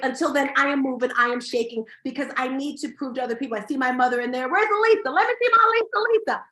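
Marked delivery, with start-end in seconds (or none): 4.5-6.4 high, loud call into the crowd. Real, not acted. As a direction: call out to find her in the audience. Calling out to mother in crowd.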